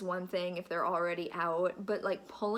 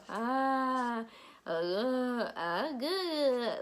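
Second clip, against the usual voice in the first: a hint of baby babble, a bit higher; imitating baby; 4 semitones higher, much slower than usual. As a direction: mimic a baby's happy coos. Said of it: "she'll go".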